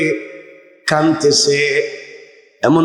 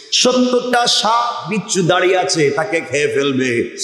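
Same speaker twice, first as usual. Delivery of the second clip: usual speaking voice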